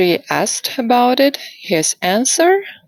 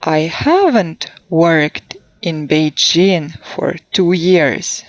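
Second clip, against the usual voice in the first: haven't stressed, years falling; slower than usual. Shown as a demonstration. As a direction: hit haven't, let it fall. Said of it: "please listen and repeat".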